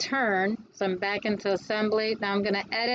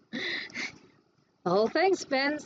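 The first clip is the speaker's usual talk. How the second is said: "The whole thing spins" stretched very slow and pitched higher; drawn-out wonder; 5 semitones higher, much slower than usual. Real, not acted. Teacher repeating the result to the class, slow and amazed. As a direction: savour each word like a marvel.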